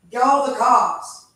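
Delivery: slow, loud furious demand; shaking with anger. Real, not acted. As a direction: bark the order out in anger. Real angry confrontation at home.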